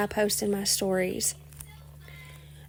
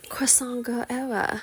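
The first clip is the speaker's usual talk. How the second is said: put-on terrible French accent; 2 semitones higher than usual. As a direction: say "Croissant Girl Era" in a deliberately bad French accent, almost whispered. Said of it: "My terrible French accent".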